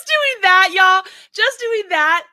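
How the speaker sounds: high, loud strained push with a laugh; squeezing the words out through sore muscles; strained with pain. Real, not acted. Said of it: "it hurts right here".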